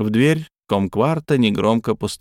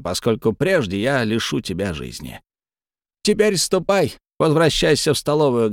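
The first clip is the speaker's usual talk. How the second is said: creature voice; 3 semitones higher than usual. Acted. Creature dismisses Chen.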